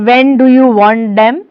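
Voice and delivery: lightly imitated German accent. Shown as a demonstration. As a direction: demonstrate a mild German accent. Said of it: "This is again a German accent".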